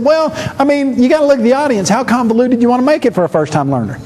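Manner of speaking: a touch of a casual, defensive writer; quoted textbook writer. Retold or imitated. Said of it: "and he said".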